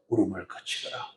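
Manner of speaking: hushed tender comfort, low and soft; warm comfort. Shown as a demonstration. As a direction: say it gently to a weeping mother, not shouting. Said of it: "아주 따뜻한 위로의 말로".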